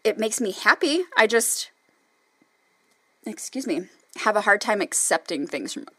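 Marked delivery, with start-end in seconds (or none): 1.1-5.9 burping mid-sentence; words interrupted by burps; talking while burping. Real, not acted. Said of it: "sorry for all the burping".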